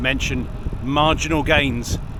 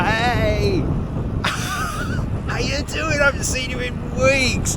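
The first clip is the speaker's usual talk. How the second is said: mock gushing, high-pitched hello; over-friendly greeting; 9 semitones higher, much slower than usual. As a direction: squeal a hammed-up greeting at a long-lost pal. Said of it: "You don't have to be there".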